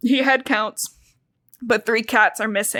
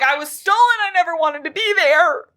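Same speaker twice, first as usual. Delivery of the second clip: raised, put-on young cat voice; Cloudpaw's whine; 7 semitones higher, 4 dB louder than usual. Retelling the book to her co-host, a higher-pitched runaway cat voice.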